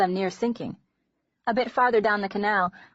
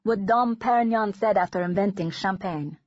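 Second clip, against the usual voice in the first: put-on Dutch accent. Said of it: "he asked in a delicious accent".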